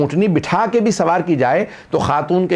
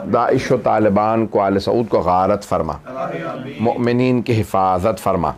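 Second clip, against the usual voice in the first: low, steady supplication; closing prayer; 4 semitones lower than usual. Acted. Preacher leads the gathering in the closing dua, low steady prayer. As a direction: pray it out low and even.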